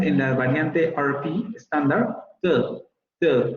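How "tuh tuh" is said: to reduced to schwa "tuh"; weak to with a central vowel; to con vocal central. Shown as a demonstration. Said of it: "con la central". (to débil, con vocal central)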